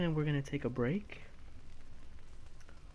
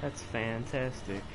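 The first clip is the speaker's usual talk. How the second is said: softer, slow flat sarcasm; deadpan sarcasm; 2 semitones lower, 5 dB quieter, slower than usual. Real, not acted. Gamer unimpressed by an enemy's trick, slow deadpan sarcasm.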